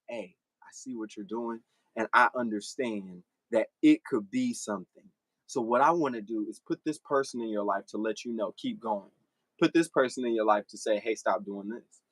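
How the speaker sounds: voicing God. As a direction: speak as God giving counsel. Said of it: "It's like God saying".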